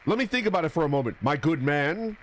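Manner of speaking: fast, mock-polite reply; Makoto Naegi voice. Streamer role-playing a polite reply to the ghoul, fast. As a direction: rattle it off like an anime hero. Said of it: "That's what Makoto Naegi would say".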